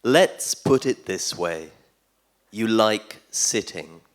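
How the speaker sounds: measured poem reading with long pauses between lines; poetry recitation. Acted. Poet reading a cat poem to a festival audience, measured recitation. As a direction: read it out line by line, letting each one land.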